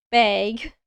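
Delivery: "bag" with an E-like vowel, like beg; accented "bag". Shown as a demonstration. Streamer clearing up a misheard word, E-voweled "bag". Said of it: "I'm trying to say".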